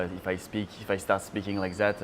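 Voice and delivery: demonstrated French accent in English; English coloured by a French accent. Shown as a demonstration. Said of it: "it's definitely from France".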